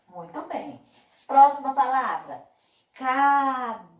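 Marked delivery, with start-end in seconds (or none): 2.9-3.9 "caderno" drawn out, DER punched loud; stressed middle syllable. Shown as a demonstration. Teacher quizzing pupils on the strong syllable, stretched DER in "caderno". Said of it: "que que eu falei com mais força".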